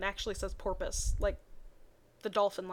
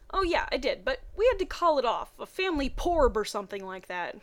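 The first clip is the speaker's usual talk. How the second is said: reading the Pokemon fanfic dialogue with energy; voiced characters; 3 semitones higher, 4 dB louder than usual. Reading Brock and Misty's phone call in lively voices.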